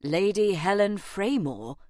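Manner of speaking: stunned echo of a title; mildly astonished, questioning; taken aback. A narrator's reading. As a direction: repeat the name as a baffled question. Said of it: "Harry blinked".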